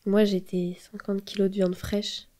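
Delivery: a soft unvoiced whisper. Poet confessing what she was to him, whispered. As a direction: breathe it out without voice, barely there. Whispered line in dark poem.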